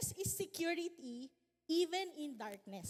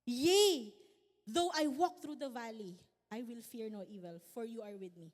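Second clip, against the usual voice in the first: climactic then calm; 4 semitones lower, 5 dB louder than usual. Acted. Preacher acting out the psalm's shift, loud opening then calm. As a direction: start with a burst, then sink into calm trust. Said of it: "parang meron siyang climax ba?".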